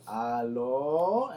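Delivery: loud, long drawn-out mock hello; yelling into phone. Imitating mom answering the phone, hollered. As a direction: sing out a hello far too loud. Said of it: "yelling into the phone".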